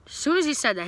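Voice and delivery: retelling the timing with rising excitement. Shown as a demonstration. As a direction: push the repeat up for effect.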